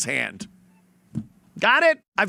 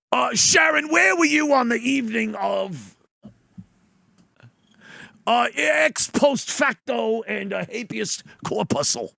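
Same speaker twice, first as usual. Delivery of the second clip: mock lawyer voice; 3 semitones higher than usual. Mocking John playing lawyer.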